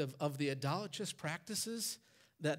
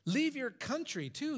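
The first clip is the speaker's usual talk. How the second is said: raised pitch on "Leave your country too"; the voice of God calling Abram, raised; God's command; 8 semitones higher than usual. Acted. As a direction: proclaim it as God's call. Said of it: "he says".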